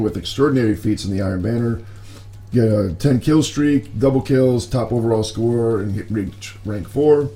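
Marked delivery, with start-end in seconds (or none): 2.5-7.3 raspy, strained morning voice; talking with the voice nearly gone; hoarse voice. Real, not acted. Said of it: "Sorry about my voice".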